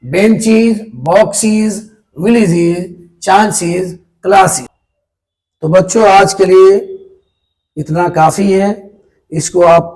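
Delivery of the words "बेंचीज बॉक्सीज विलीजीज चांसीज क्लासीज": बेंचेस, बॉक्सेस, विलेजेस, चांसेस, क्लासेस each ending "eez"; long ee ending on each word from बेंचेस to क्लासेस; correct plural pronunciation. Shown as a demonstration. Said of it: "ईज होता है".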